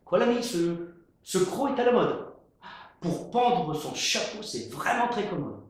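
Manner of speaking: cavalier. Acted. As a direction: toss it off lightly.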